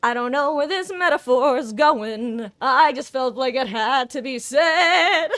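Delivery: can barely get it out for laughing; laughing through words. Real, not acted. Streamer cracking up at his own metaphor, laughing.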